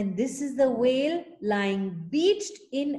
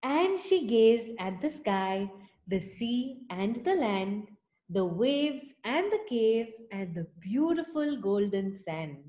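put-on reading to children. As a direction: read it like a bedtime story for little ones. Reads picture book to children.

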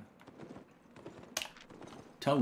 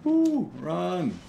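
being chased; 8 semitones higher, 7 dB louder than usual. Real, not acted. Fleeing monsters.

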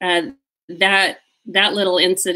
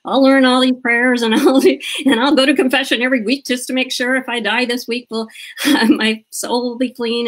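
lightly voiced kid, pitched up with laughs; higher, lightly imitated dutiful child; eager rule-following kid; 5 semitones higher than usual. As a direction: sound like a child earnestly resolving to obey. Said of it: "when I was a kid".

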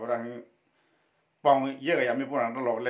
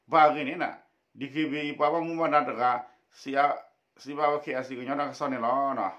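raised, projected read-aloud voice; 4 semitones higher, 5 dB louder than usual. Acted. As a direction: read the text out to a class in phrases. Reads a text aloud.

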